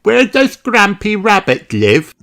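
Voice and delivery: put-on high curious little girl voice; wondering aloud; Peppa asking. A narrator's reading. Peppa asking Grandad Dog, curious high voice. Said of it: "asks Peppa".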